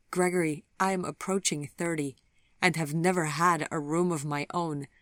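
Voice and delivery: a touch of sobbing. Acted. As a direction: speak through happy tears. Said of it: "she sobbed".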